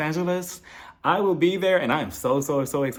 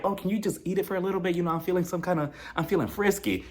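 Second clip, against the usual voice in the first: flirty ask; 4 semitones higher, 4 dB quieter than usual. Retold or imitated. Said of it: "you ask him later on that night".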